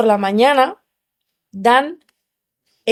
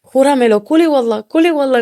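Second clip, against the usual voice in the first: pleading oath; 5 semitones higher, 5 dB louder than usual. Retold or imitated. Begging the guard to swear.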